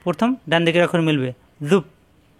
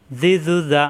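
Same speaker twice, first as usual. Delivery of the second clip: জি জু যা said quickly, with no gaps; quick classroom drill; quick harakat drill; slower than usual. Shown as a demonstration. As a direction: rattle the short vowels off fast. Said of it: "কোনো দেরি করা যাবে না".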